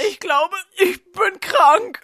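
milk the illness for pity; whiny sick act. Acted. Boy faking sickness to the nurse, slow whine. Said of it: "Hör auf zu simulieren".

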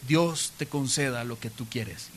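low, soft and slow; gentle blessing. Retold or imitated. Eli blessing Ana before he leaves, gentle and low. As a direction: grant it quietly, unhurried.

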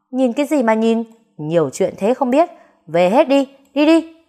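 irritated scolding, rising into a high loud shout. Acted. Old woman shouts at nosy neighbours to leave. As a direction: shoo the gawking neighbours away. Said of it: "làm bà bực mình quát họ".

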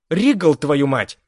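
slow angry growl. Acted. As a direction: growl at him in fury. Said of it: "рыкнула девушка". (рычит от злости)

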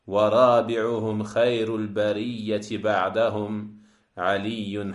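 metrical verse intoned on an even pitch; measured, chant-like poetry reading; Arabic poem recitation. Acted. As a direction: recite the lines of classical verse.

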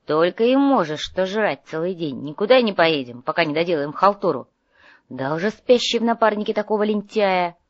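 loud, irritated telling-off; scolding. Acted. Working partner refuses to go eat, scolding crossly. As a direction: tell off a lazy partner. Quarrel between office partners.

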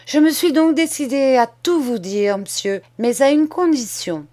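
put-on a boy laying out terms, steady and sure; bold schoolboy.

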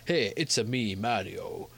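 lightly done cartoon Italian accent; Italian accent caricature. Shown as a demonstration. Host arguing it's a caricature, light mock-Italian accent. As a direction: give it a mild mock-Italian lilt. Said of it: "this thing is a caricature of Italian accent".

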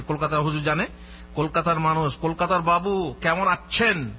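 playfully ribbing a Kolkata cleric; teasing mockery. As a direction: colleagues teasing the Kolkata cleric, lightly mocking. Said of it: "আমাকে ঠাট্টা করে যে".

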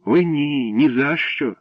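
put-on high, loud girlish protest; exclaimed refusal; crying out. A narrator's reading. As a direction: refuse in alarm, voice jumping up. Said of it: "скрикнула вона".

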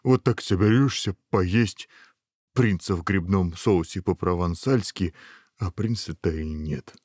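mildly wistful grumble; understated disappointment; sighing ogre. Acted. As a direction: lament a missing dinner. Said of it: "вздохнул большой человек".

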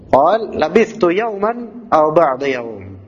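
slow, measured recital of labithtu yawman; Quran recitation. Acted. Teacher reciting the verse to the class. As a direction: recite it very slowly and evenly.

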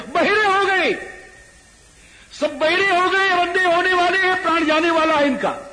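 loud, very high, sustained proclamation; high-pitched shouting. Real, not acted. Preacher proclaims the enemy's doom to listeners, high loud shout. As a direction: cry it out at full pitch, barely dropping. Climax of the battle tale.

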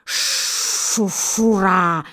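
slow, drawn-out hiss of a gander; slow goose hiss; gander's hiss. A narrator's reading. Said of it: "шипит гусак".

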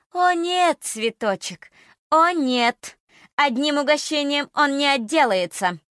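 high, loud gloating cackle voice; gleeful witch voice. Acted. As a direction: crow over the victim.

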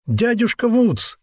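high, slow long call; shouting. A narrator's reading. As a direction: call out across the slope. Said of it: "закричал он во всё горло".

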